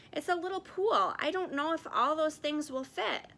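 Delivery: gently voiced Stillwater. A narrator's reading. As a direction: lift the voice for the panda character.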